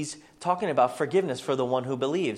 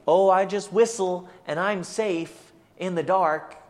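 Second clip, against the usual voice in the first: higher, louder, drawn-out mock innocence; mock-naive believer; 5 semitones higher, 6 dB louder than usual. World caricaturing Christians as whistling in dark, mock naive. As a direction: send up a naive, carefree believer.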